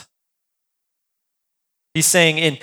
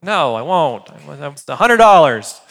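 mock-offended seller, louder at the end; indignant refusal; 4 dB louder than usual. Seller rebuffs a lowball Marketplace offer, mock-indignant. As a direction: huff back at the lowballer. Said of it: "trauma around Facebook Marketplace".

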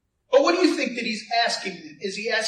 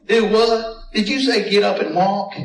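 put-on Texas accent; 5 dB louder than usual. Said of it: "In his best Texas accent".

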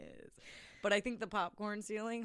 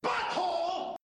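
high squeaky shouted Butthole; silly catchphrase; 11 semitones higher, slower than usual. Pretend. Podcast host yells the running gag in a squeaky voice. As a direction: blurt it in a squeaky cartoon voice.

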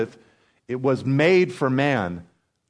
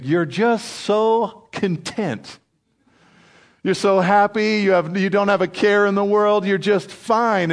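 higher-pitched cooing to little birds; fond admiration; 6 semitones higher than usual. Acted. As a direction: marvel fondly at the tiny creatures.

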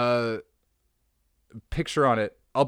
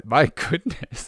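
higher, drawn-out, slow gasp of amazement; amazed exclamation; 4 semitones higher, slower than usual. Real, not acted. Reading a saucy t-shirt aloud, slow amazed exclamation. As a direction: savour the shock, stretching it slowly. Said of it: "this is a saucy t-shirt".

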